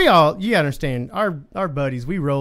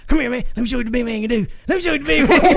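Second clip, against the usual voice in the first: higher-pitched hammed-up imitation, building in pitch; mock sleep-talker; 6 semitones higher, much faster than usual. Storyteller imitating sleep-talking buddy, high and hammed-up.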